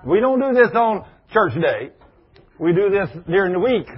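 fussing leaders. Retold or imitated. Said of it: "the church leaders are fussing".

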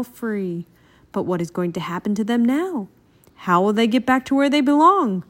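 lightly voiced on-air report; news reporter. A narrator's reading. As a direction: report it live with emphatic peaks.

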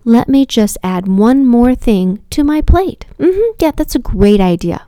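slow, deliberate mock approval; dry sarcasm aimed at oneself; sarcastic self-mockery. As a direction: pretend this is a wonderful plan. Mocks herself for adding chores.

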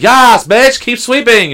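hammed-up hype-girl yell; hype shout. Imitating a clerk cheering the sweeping coworker, hype yell.

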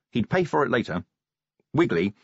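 ordinary delivery

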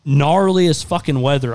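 drawn-out, emphatic awe at the storm; emphatic storm-tale hype. Retold or imitated. Telling Tanner on the phone about the hail, emphatic hype.

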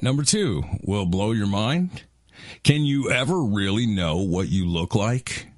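hyped-up teaser read, rising at the end; clickbait video narrator. Acted. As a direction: sell the question like a clickbait video. Reads a mind-blowing question list.

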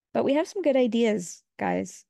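half-hearted, not sold on it; unconvincing. Real, not acted. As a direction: say it like you don't believe it. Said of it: "I say that so unconvincingly".

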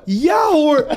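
nervously accepting, laughing. Retold or imitated. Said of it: "Van alles wat ik hoor me".

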